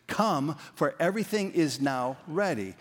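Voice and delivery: "now" set out firmly before "ready"; stress on now. Shown as a demonstration. Preacher leading the congregation in the words in blue, stress on "now". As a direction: lean on "now" as the key word. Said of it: "with that emphasis on the now".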